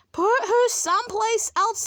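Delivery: high-pitched, indignant team shout; storybook angry shouting. A narrator's reading. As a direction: shout it crossly at the captain. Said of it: "they shouted".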